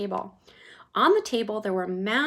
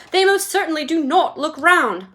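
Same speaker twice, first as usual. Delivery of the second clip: louder, higher indignant cry; cried out; 6 semitones higher, 9 dB louder than usual. A narrator's reading. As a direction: Veruca crying out at Wonka, indignant loud cry. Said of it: "cried Veruca".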